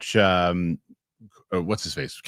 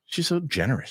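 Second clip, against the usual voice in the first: put-on high little-kid voice; seven-year-old daughter; 7 semitones higher, 4 dB quieter than usual. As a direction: imitate an earnest child, pitched up. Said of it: "She's like".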